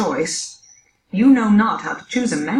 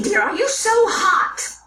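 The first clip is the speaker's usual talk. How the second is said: laughing; 9 semitones higher than usual. Acted. Nurse teases Juliet.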